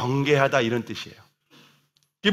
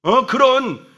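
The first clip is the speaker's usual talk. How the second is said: scolding Peter; 4 semitones higher than usual. Retold or imitated. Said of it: "막 예수님을 지금 혼내고".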